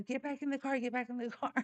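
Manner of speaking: urgent repeated order, played lightly; mock urgent order. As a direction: imitate hurrying someone along, amused. Retold urgent order to son.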